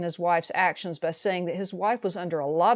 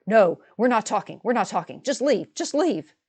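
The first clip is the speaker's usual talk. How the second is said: rising loud and higher, each repeat more heated; angry refusal; 3 semitones higher, 4 dB louder than usual. Retold or imitated. Sister-in-law shoos the narrator out of the room, angrily. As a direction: push her away, louder and higher with every word.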